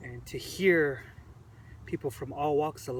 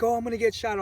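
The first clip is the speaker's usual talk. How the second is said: higher, louder dramatic panic; mock panic; 8 semitones higher, 6 dB louder, faster than usual. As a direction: ham up the fear like a drama queen. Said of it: "this guy starts freaking out".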